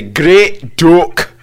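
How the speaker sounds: "Great duck" as Scottish "gret dook"; Scottish accent. Shown as a demonstration. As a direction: model "Great duck" like a Scot. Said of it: "Yeah, now say".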